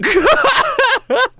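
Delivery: high burst of laughter; real cackling laugh, high and loud; amused laugh. Real, not acted. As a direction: crack up after the punchline. Laughs after retelling rapper's reaction.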